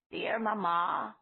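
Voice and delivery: "Dear Mama" with the stress on the last syllable, ma-MA, drawn out and falling; "Mama" stressed on the second syllable, slow and falling. Acted. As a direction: say "Mama" as ma-MA, slowly. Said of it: "with the accent on the second syllable".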